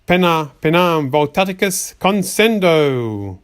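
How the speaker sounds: slow, dragged incantation; read too slowly. Acted. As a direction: drag out the spell words, slowing to a crawl at the end. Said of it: "you botched that by reading too slow".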